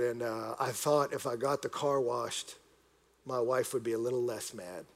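understated, downcast voice; retold tearful confession. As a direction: admit it quietly with pauses. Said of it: "he starts crying".

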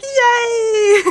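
high, loud cheering yay; imitating a leaping cheer; joyful whoop. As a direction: cheer mid-leap. Quoting his joyful leap.

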